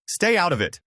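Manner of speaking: a lightly voiced angry snap; mild mock snap at the date; snapped. A narrator's reading. Ex-wife snapping at the new date, mildly voiced. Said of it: "Brooke snapped".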